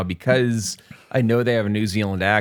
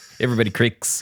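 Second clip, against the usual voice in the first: put-on New Zealand accent, heard on "cricks". Repeating the clones' line "everybody cracks": new zealand accent. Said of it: "my New Zealand accent".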